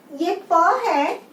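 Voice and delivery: slow, isolated प, said alone; plain letter pa. Shown as a demonstration. Teacher to class, sounding out the bare letter. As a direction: sound out प slowly on its own. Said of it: "वो बन जाता है प्र".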